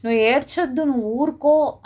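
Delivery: emphatic acted command; God's command. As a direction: lift the voice to tell someone firmly to stop. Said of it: "దేవుడు ఏం చెప్తున్నాడండి ఈరోజు మనకి".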